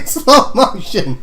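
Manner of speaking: slowly drawn out; slow motion. Pretend. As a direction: stretch the words out slowly.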